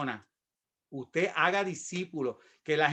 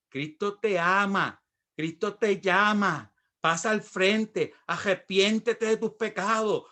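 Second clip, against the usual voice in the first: slow, drawn-out evangelizing appeal; imitating a slow evangelist's plea; slow altar-call plea; slower than usual. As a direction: stretch each phrase like an earnest altar call. Young man making altar call.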